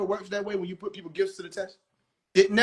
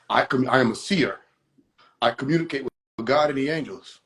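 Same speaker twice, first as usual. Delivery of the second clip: lower, solemn mock prophet; mock seer voice; 5 semitones lower than usual. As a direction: play the pompous seer lightly. Mimicking self-proclaimed seer, lower.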